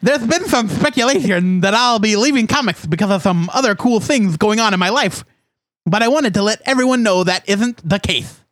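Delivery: lisping cartoon duck quote; Daffy Duck voice. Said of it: "Is that Daffy Duck or Sylvester?".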